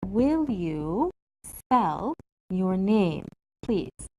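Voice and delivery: very slow, drawn out for learners; slow careful model. Shown as a demonstration. Teacher models a polite request slowly for the class. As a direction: say it slowly so students can follow. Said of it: "change the polite expression like this".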